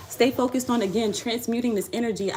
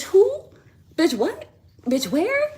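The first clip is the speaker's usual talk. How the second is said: mocking who; 10 semitones higher, 3 dB louder, slower than usual. Mocking dismissal of ex.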